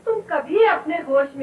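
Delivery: crying out in protest; words choked by a sob; breaking into tears. Acted. Wife breaks down arguing with husband. (पति से बहस करती पत्नी, रोते हुए)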